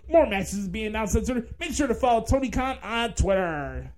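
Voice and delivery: oversell every match like a TV promo guy; hyped wrestling announcer impression. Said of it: "let's do the excrement impression".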